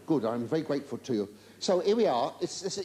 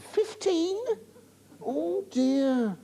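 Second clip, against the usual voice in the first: shocked younger sister; 13 semitones higher, much slower than usual. Retold or imitated. Younger sister reacts in retold joke.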